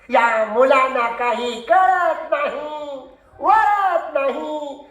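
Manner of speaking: slow, drawn-out lament over the pupils; schoolmaster's long-drawn catchphrase; exasperated teacher. Acted. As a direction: stretch each phrase out in weary exasperation.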